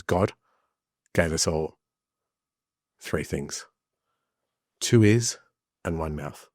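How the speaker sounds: put-on solemn, slow Spanish accent. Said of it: "thick Spanish accent".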